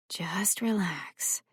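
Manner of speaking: slow soft whisper. Acted. Nurse lulling the sedated boy, slow whisper. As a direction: whisper it to lull him. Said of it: "her voice quieter now".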